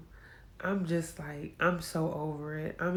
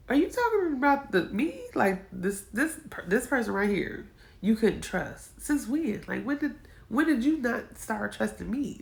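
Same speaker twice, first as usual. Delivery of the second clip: raised, rushed disbelief; incredulous questioning; 4 semitones higher, 3 dB louder than usual. Retold or imitated. To her husband, asking since when, incredulous and raised. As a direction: push back in high-pitched disbelief. Confronting husband, retold quote.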